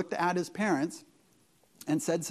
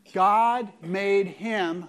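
slow reading; 4 dB louder, much slower than usual. Shown as a demonstration. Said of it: "let's just read this together".

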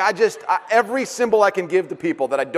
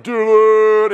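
excited call; 5 semitones higher, 9 dB louder than usual. Retold or imitated.

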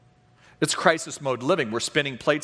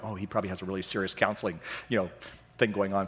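imitating the guys; 5 semitones lower, 6 dB quieter, faster than usual. Guys imagining serious counseling.

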